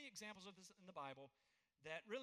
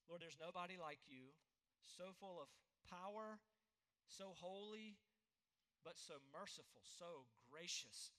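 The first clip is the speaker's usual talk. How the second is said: prayer; 2 semitones lower than usual. Real, not acted. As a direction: pray aloud for the congregation, measured and earnest. Leads a closing prayer.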